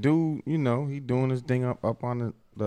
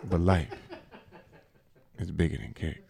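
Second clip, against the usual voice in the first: show intro voice. Real, not acted. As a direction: intone the show's opening line, with long pauses. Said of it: "transition from out your bag into your voice".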